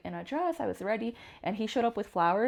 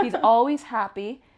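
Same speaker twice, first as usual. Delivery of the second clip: laughing; 3 semitones higher, 9 dB louder, slower than usual. Real, not acted. Repeats fondly, laughing.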